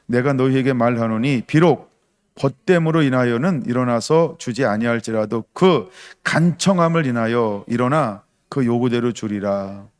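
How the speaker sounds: loud, measured Bible reading; scripture reading. Acted. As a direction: read the verse out boldly to the church. Congregation reads scripture aloud. (성경 봉독하듯 힘있게)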